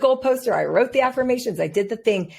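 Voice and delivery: high, emphatic insisting; insistent quote. Retold or imitated. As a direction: protest that you really meant it. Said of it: "I'm like".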